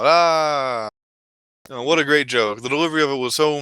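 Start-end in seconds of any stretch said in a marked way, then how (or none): 0.0-0.9 loud mock cheer, pitched up; imitated crowd roar. Whole audience reacting to the clown's joke, wild. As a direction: mimic a crowd going wild. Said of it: "everyone in the crowd goes fucking wild".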